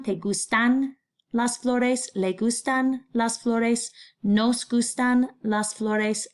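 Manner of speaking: slow, even recitation of each gustan line; slow drill. Shown as a demonstration. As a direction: model the forms slowly for students.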